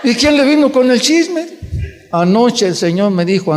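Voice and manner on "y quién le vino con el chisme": laughing question. Retold or imitated. Son laughs at mother's news.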